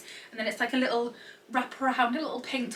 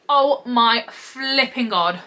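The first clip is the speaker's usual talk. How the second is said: slow, loud, drawn-out delight; drawn-out gush; 3 semitones higher, 7 dB louder, much slower than usual. Real, not acted. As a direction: stretch every word out in awe. Gushing over pajama print.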